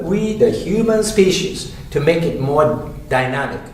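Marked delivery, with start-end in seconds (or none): 0.0-1.7 we starts high, then human falls; rising pitch. Shown as a demonstration. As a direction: lift the voice on we, then fall on human species.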